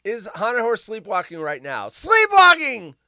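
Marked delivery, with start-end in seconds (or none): 1.9-2.9 spooky drawn-out word. Acted.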